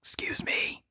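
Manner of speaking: hushed, urgent excuse me; urgent whisper. Pretend. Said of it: "Urgent whisper".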